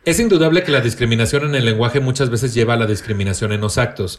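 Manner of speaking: even, measured read-aloud of a definition. Acted. Host reads a written definition to the co-hosts, reading aloud. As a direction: read it out like a reference entry.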